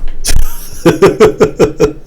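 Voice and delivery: high, airy giggle; giggling laugh. Real, not acted. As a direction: chuckle that rises in pitch. Laughs amid mocking a cartoon character.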